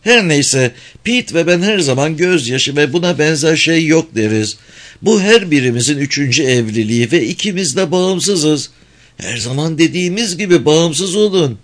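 high chattering woman's voice; Mrs. Phelps. A narrator's reading.

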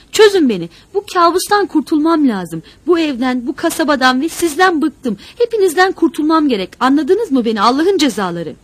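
high, very loud, desperate tirade; furious, fed-up yelling; enraged shouting. A narrator's reading. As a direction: scream at captors to let go. Captive raging to be released.

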